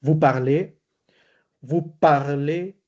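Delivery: "parlez" ending on a tight "ay", Z silent; closed final E. Shown as a demonstration. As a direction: finish "parlez" on a closed, rising E with no Z. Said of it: "lo digo con una E cerrada".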